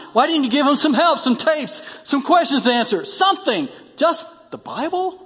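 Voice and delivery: can't believe he only gave a Bible; incredulous objection. Acted.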